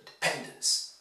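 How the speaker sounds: 'dependence' as de-PEN-dence; 'dependence' with a strong middle syllable; stress on PEN. Shown as a demonstration. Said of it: "stressed on the third".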